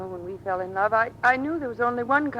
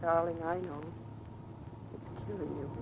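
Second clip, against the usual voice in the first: tender imagined words; 3 semitones lower, 8 dB quieter than usual. Acted.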